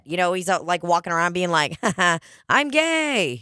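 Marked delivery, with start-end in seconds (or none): 1.8-3.4 slow, higher, flat little laugh before the words; slow deadpan "ha ha" impression of the comedian; Mark Normand impression. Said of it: "'cause that's how he talks".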